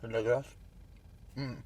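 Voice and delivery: talking through a mouthful; mouth full. Real, not acted. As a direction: eat and talk at once. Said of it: "J'adore parler la bouche pleine".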